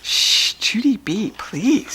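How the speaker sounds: unvoiced, urgent shushing whisper; hushing whisper. A narrator's reading. Daddy whispering to Judy B to behave. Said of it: "said Daddy".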